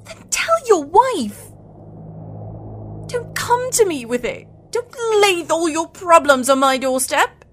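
high, heated dismissal; angry rebuke. Acted. Woman rejecting married lover's excuses, angry.

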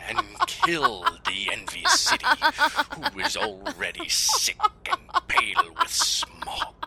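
high, loud, theatrical declaiming, laughing through it; hammy Shakespeare. Acted. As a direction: ham it up like a bad stage actor, giggling. Hammed-up Shakespeare parody, laughing.

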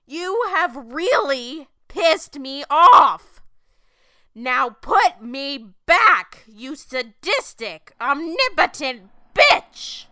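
loud, slow, furious yelling; furious shout. Acted. Woman cursing God and demanding to be sent back, yelling. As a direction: hurl every word in rage.

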